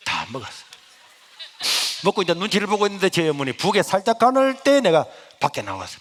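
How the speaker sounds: ordinary talk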